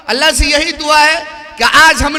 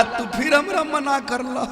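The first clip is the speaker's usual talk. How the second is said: laughing defiance; 9 dB quieter than usual. Acted. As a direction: giggle as she lets go, much quieter. Wife lets go out of defiance. (ہنستے ہوئے ضد میں)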